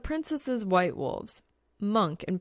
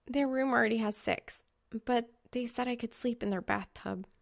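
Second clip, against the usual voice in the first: put-on higher, fast rambling girl voice; chatty girl; 4 semitones higher than usual. Reaper explaining her plight to Soul, high and fast. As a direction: babble it out quickly.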